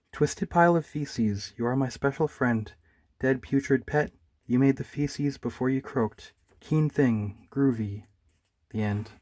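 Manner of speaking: slow, grand mock recital; mock poem recital. Bear reciting his poem to Droopy, slow and mock grand. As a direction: recite the gross poem like fine verse.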